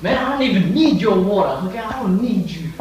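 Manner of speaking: high, loud exasperated outburst; indignant rant. Acted. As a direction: tell it off, worked up and pitched high. Gives up, rants at dispenser.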